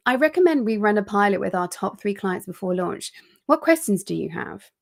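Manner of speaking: steady, even and assured, no fillers; confident version. Shown as a demonstration. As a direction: state the plan calmly like a leader. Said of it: "She lowers her tone".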